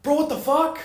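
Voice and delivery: imitating a friend's shock; mock shocked friend. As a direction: play the stunned friend.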